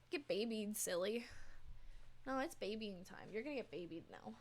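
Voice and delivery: gentle cooing to a cat. Real, not acted. Babying her cat.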